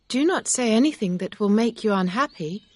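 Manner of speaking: mild cry in a high character voice. A narrator's reading. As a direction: raise pitch and volume, pleading as the heroine. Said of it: "Emma cried".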